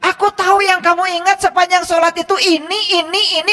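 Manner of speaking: high mock call-out; pretend shout. Preacher imagines God shouting out worshippers' thoughts. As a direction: call it out as if exposing someone. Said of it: "Coba Allah kalau teriak".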